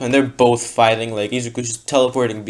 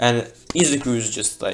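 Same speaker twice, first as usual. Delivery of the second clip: plain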